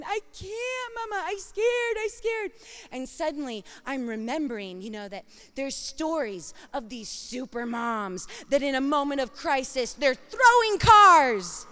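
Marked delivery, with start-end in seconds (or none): 0.0-2.5 put-on high, frightened little child voice; scared toddler. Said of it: "Wyatt's going". 9.9-11.7 loud, slow, high mock-heroic punch; dramatic emphasis. Dramatic super mom image.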